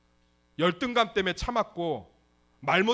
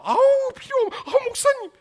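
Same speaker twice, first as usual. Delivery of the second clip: very high, loud coy refusal; mock fussy church lady; 11 dB louder than usual. Imitating a deaconess refusing the rice cake while packing it, high coy squeal.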